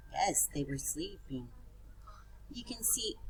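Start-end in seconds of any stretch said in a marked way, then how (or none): 2.5-3.2 soft unvoiced whisper. Shown as a demonstration. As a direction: whisper it like a secret. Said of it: "teacher whispering to class".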